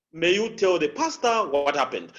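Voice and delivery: "pastor" and "what happened" stressed; "May you tell the pastor what happened" leaning on "pastor"; emphasis on two things. Shown as a demonstration. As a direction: lift "pastor", then weight "what happened". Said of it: "the pastor and what happened".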